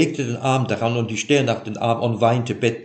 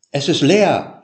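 mild tremble in a raised voice; trembling lips; 7 semitones higher, 8 dB louder than usual. A narrator's reading. Jakob telling Laban of the empty bed, voice trembling. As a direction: let the words shake a little. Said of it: "sprach Jakob bebenden Mundes".

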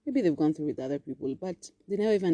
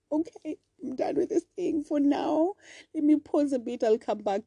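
mock giving up; 10 semitones higher than usual. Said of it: "Like saying".

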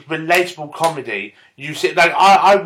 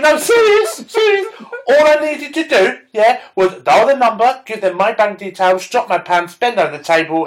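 very high, louder gossip voice; high mock lady; 7 semitones higher, 4 dB louder than usual. Lady telling her friend about the funeral plan, high squeal. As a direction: squeal it like an excited old lady.

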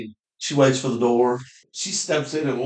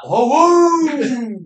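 mock whoop; 11 semitones higher, 6 dB louder than usual. Retelling hunter's whoop.

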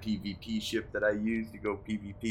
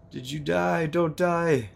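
playful alarmed calling out; 9 semitones higher, slower than usual. Real, not acted. Friend's connection drops.

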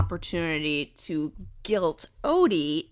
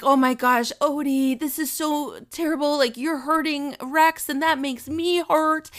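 higher-pitched mock child's distress; tearful nine-year-old; 5 semitones higher than usual. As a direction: imitate an upset child pleading with a brother. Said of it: "he starts crying".

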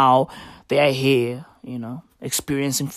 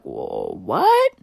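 mock panic at the sight of the flag; mock alarm; 3 semitones higher than usual. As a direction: play a startled double take. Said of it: "I was like".

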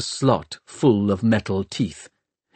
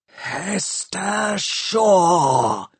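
very slow, drawn-out inhuman voice; machine creature voice; 8 semitones higher, much slower than usual. A narrator's reading. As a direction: let each syllable stretch like a machine. Undead machine speaks her name.

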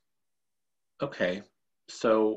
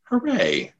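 higher, louder happy cheer; 6 semitones higher, 5 dB louder than usual. Real, not acted. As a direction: celebrate the win. Celebrating both solving it.

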